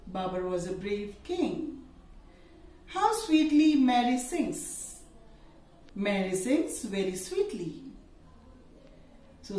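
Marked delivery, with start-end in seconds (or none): 2.9-5.0 higher, slow, admiring exclamation; exclamatory. Shown as a demonstration. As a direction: gush over how she sings. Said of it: "Now exclamatory into assertive".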